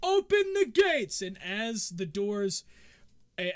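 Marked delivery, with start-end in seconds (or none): 0.0-1.2 loud, high commanding shout; guard's shouted order. Acted. Guard to the contestants as the arena opens, shouted order. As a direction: call it out, stretching the last words. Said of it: "the guard goes".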